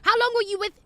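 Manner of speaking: can't believe what you're reading; incredulous. Real, not acted. Host reacting to a twenty-year-old's letter, incredulous and loud.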